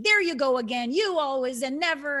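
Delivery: mock-irritated partner starting a fight; accusing snap. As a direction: throw the blame at your partner. Acted blaming reaction in quarrel.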